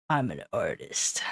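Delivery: soft whisper. Pretend. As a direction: whisper it proudly. Whispered then plain.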